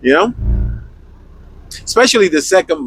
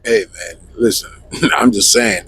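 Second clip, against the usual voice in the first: American accent; 6 semitones lower than usual. Shown as a demonstration. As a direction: put on a laid-back American accent, pitched down. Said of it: "do an American accent".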